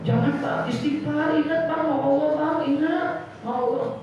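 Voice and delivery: pleading bystander. Acted. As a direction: beg him to remember Allah. Someone urging an angry man.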